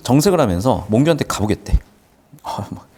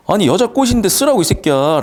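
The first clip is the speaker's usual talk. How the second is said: higher and louder, cocky friend; bold buddy retort; 8 semitones higher, 3 dB louder than usual. Retold or imitated. A cocky friend teases the shy poet, higher and louder. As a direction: toss it back like a confident guy. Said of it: "라고 얘기를 해주는 거고".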